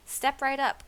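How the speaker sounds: high, loud hawker's call. A narrator's reading. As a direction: call the crowd over like a street seller. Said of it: "called Trog".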